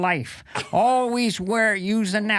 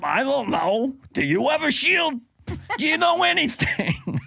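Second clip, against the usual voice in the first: mock rising shout; 5 semitones higher than usual. Fauci impression rising.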